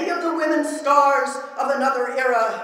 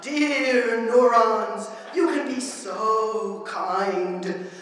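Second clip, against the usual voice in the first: commending; 2 semitones lower, slower than usual. Acted. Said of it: "like to be commended and commented upon".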